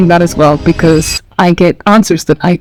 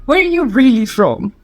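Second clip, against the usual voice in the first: mock-sceptical questioning, pitched up at the start; imitated disbelief; 4 semitones higher than usual. People doubting where someone is from, imitated disbelief. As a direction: probe as if unconvinced. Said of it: "followed by a sense of disbelief".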